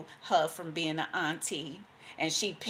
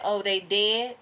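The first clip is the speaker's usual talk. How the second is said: surprised judge; 4 semitones higher, 7 dB louder, slower than usual. Retold or imitated.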